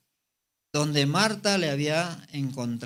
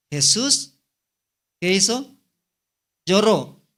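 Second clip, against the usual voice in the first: higher and louder, punching Lloró; emphatic preaching; 4 semitones higher, 6 dB louder, slower than usual. Acted. Preacher presses the congregation on Jesus weeping, loud. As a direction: call it out, then land hard on Lloró.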